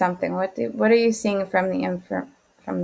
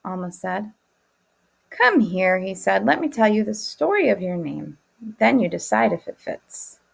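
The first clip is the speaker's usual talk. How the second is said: put-on child complaining. Rereading the story to class.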